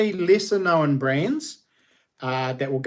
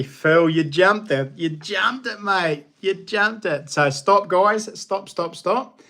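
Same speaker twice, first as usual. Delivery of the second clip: calling out; 4 semitones higher, slower than usual. Real, not acted. Calling out early guesser in chat.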